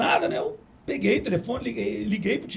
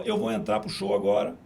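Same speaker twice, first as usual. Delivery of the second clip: A singer; 11 semitones lower than usual. Retold or imitated. Singer sending his friend into the audience, low impersonation. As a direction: impersonate a low-voiced singer giving instructions. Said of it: "que ele foi, ele falou".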